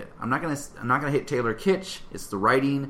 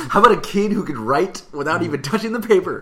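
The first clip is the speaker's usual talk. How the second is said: mocking; 5 semitones higher, 6 dB louder than usual. Mocking movie's odd choice.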